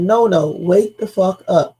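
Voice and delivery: slow, pressing, a touch of alarm; urgent quote. Retold or imitated. Caller on the sinking boat, slow and pressing. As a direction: lean on each word like it matters. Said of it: "No, they said".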